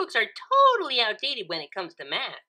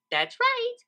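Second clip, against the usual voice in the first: much higher cheery reply; bright confirmation; 3 dB louder than usual. A narrator's reading. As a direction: chirp yes.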